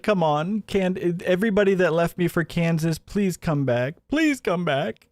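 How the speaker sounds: hammed-up plea to come back; mock begging. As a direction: beg like a desperate host losing fans. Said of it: "he's like, begging".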